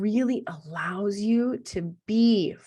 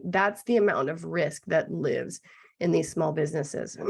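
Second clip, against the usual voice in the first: hoarse, rough-throated speaking; gruff voice; 2 semitones lower than usual. Real, not acted. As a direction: talk through a scratchy throat. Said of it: "excuse me for my gruff voice".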